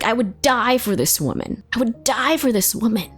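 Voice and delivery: emphatic, worked-up retelling; retold livid outrage. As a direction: plead it with hurt indignation. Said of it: "I'm livid".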